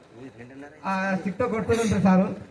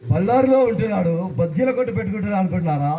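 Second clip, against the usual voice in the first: a touch lower, slow film-star drawl; Chiranjeevi mimicry; 3 semitones lower than usual. Reunion mimic teasing classmates, lightly in a film star's voice. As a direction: lightly mimic a movie hero teasing the crowd. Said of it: "Chiranjeevi గారిని మాట్లాడవలసిందిగా కోరుకుంటున్నాను".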